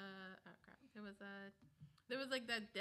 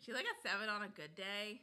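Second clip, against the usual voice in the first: put-on character voice, lightly voiced; a hint of a character voice; Crystal; 3 dB louder than usual. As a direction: slip into a light character impression. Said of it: "I love your Crystal voice".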